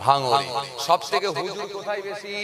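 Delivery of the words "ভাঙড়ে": crowd shouting back together; whole hall answers at once; many voices in unison. Real, not acted.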